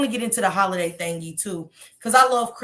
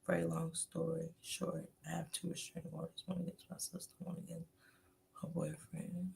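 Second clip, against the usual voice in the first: much softer, fast aside; hushed confession; 3 semitones lower, 18 dB quieter than usual. Real, not acted. Telling the chat about restraining orders, hushed. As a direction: drop your voice for the secret.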